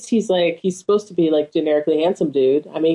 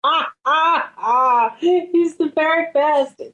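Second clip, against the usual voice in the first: high, gushing mock wonder; mock swooning awe; 7 semitones higher, slower than usual. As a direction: gush over him in a high voice. Gushes in mock awe over Svensson.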